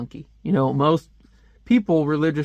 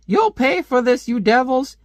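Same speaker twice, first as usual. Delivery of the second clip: mock furious old woman; 10 semitones higher, 4 dB louder than usual. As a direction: drag out the threat in a shrill cartoon voice. Woman voiced in comic scene.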